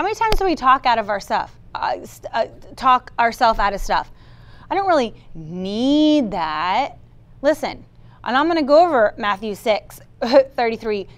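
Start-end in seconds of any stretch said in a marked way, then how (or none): 4.7-7.0 drawn-out, falsely modest demurral; mock humble. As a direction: stretch it slowly, imitating polite reluctance. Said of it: "that humble pie".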